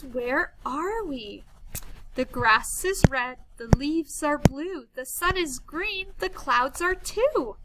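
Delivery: put-on lilting read-aloud of a children's poem; measured teacher's poem voice. Shown as a demonstration. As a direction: read the rhyme to small children, line by line.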